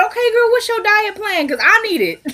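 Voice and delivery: high, giddy, half-laughing plea; excited squeal. Retold or imitated. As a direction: beg for the diet plan with delight. Begging friend for her diet.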